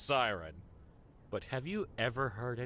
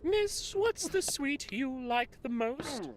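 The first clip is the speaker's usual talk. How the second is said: put-on much higher, slow little boy voice; Victorian orphan boy; 11 semitones higher, much slower than usual. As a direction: beg like a small London street urchin. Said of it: "this small Victorian London orphan boy".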